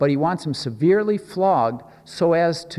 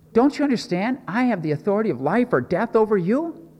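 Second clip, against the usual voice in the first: exasperated, higher-pitched Pilate demanding an answer; retold outburst of a ruler at wit's end; 7 semitones higher than usual. Pilate to Jesus at his wit's end, exasperated. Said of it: "Pilate's totally exasperated with the crowd".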